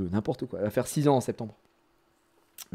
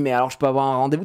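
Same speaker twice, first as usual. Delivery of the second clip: playing the patient; faster than usual. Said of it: "je joue vraiment le mec qui".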